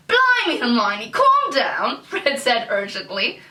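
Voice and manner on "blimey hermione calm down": urgent British exclamation, pitched up on Blimey; slipped-in British accent. Acted. Fred urging Hermione to calm down, British accent. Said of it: "a little accent got stuck in there".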